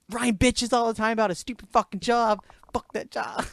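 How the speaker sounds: mocking listener. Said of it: "People are gonna hear this and go".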